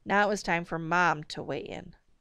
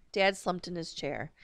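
ordinary delivery

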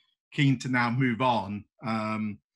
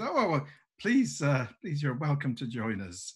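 flustered Laskin. Acted. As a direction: backpedal politely.

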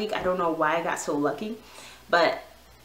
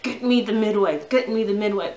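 louder retold angry demand, repeated; 3 semitones higher, 4 dB louder than usual. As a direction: insist loudly for the midwife. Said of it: "I got so angry".

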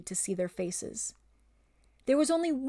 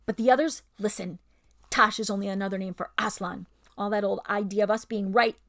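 louder, contemptuous ape; ape's bullying voice; 4 dB louder than usual. Acted. Ape bullies the beasts, contemptuous. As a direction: lecture them with contempt.

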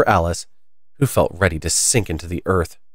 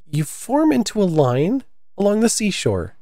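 Gryphon voice; 11 semitones higher than usual. A narrator's reading. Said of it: "said the Gryphon".

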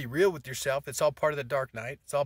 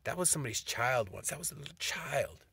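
hushed inner thought; 6 dB quieter than usual. Retold or imitated. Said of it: "And I was like".

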